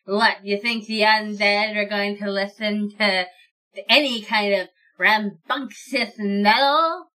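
slow, haughty undead aristocrat; snooty lich voice. Acted. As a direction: sniff at them, offended. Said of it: "to say in this voice".

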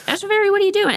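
very high sing-song pet voice; talking to the cat. Retold or imitated. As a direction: ask the cat sweetly in a very high voice. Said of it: "and then I'm like".

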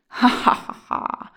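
loud, acted giant laugh; giant's laugh. A narrator's reading. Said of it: "laughed the giant".

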